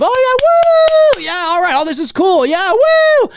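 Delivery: loud, high whooping cheer; cheering fans. Retold or imitated. Fans cheering a hero's entrance, loud high whoops. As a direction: whoop like a fan when the hero appears. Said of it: "a couple of moments of".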